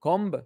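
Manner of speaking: kumb said like comb, as in comb your hair; spelled-out word. Shown as a demonstration. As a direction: kumb rhymes with home. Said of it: "Comb, like comb your hair".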